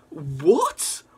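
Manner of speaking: whispered disbelieving what; hushed shock; stunned whisper. Real, not acted. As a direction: breathe it out in disbelief. Still shocked by reveal.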